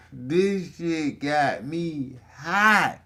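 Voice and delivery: slow, drawn-out mimic of the friend; mocking imitation. Quoting the friend's podcast line, slowed mocking drawl. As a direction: drag it out, mocking how he said it. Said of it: "And he said".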